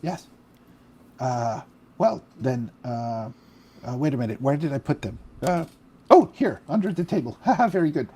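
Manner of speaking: high, soft, airy mummy rasp; a distracted old mummy, softly delighted; hoarse mummy voice. Mummy bursar Pam greeting Phil, high hoarse rasp. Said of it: "a hoarse, indefinite voice".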